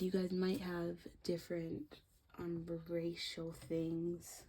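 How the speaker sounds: hiccuping mid-sentence; with hiccups. Real, not acted. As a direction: talk through hiccups. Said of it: "Sorry for the hiccups".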